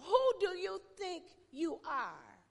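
loud, high challenge; preached shout. Acted. Preacher shouting the crowd's challenge at his flock. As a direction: fling the question out hard. Sermon climax, shouted line.

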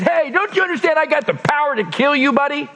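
mock ticked-off Pilate. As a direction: play the irritated governor, rushing it. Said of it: "Pilate gets ticked off and he says".

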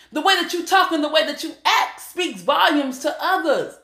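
ordinary talk, nothing marked

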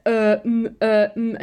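mock stumped umming and ahhing; halting filler noises, mimicking someone stumped; imitating blank hesitation. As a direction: act out drawing a total blank. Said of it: "he literally looked so blank".

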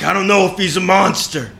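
hammed-up earnest protest; impassioned. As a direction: defend him with heat. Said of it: "And Red's like".

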